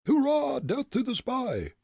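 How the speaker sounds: very high, loud cheer; battle cry. Acted. Third smuggler rallying the rush, loud cry. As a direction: whoop it out for a charge. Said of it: "cried a third".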